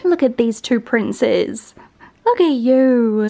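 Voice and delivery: slow, sing-song pet talk. Real, not acted. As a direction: coo over the dogs. Cooing at her dogs.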